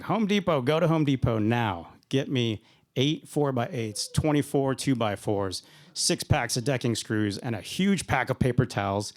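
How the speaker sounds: mock drill sergeant barking orders; hint of a sergeant snapping out a shopping list. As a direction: bark the list like a lightly voiced sergeant. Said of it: "he's barking orders at me".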